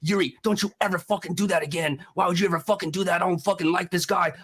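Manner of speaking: mildly heated retelling of a telling-off; pissed-off rant. Retold or imitated. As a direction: imitate an annoyed boss's scolding. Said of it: "Adam got so pissed off".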